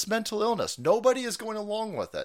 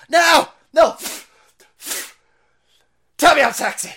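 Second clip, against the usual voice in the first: retold screaming; 9 semitones higher, 10 dB louder than usual. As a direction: scream it like a tantrum. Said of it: "he would always constantly scream".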